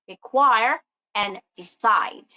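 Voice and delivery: "require and decide", stressing QUIRE and CIDE; stress on last syllable. Shown as a demonstration. Teacher gives verb examples of rule two, stressed endings in "require and decide". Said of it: "the last syllable of most two-syllable".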